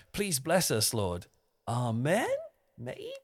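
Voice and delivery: mock-tentative prayer, voice lifting on "Amen" and "Maybe"; rising prayer ending. Shown as a demonstration. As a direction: end "Amen" and "Maybe" going up in pitch like questions. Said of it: "if you go up in pitch at the end of a prayer".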